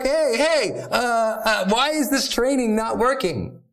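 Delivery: hammed-up puzzled pet owner; exasperated owner. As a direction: owner baffled that training fails, mock exasperation. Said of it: "And you're like".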